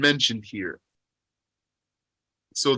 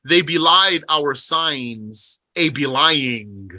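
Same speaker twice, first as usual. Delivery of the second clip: slow emphasis; slower than usual. Shown as a demonstration. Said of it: "Let's emphasize that they belied".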